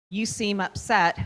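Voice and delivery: slow down and let "You seem upset" sound caring; empathetic to a child. Shown as a demonstration. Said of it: "You're showing empathy".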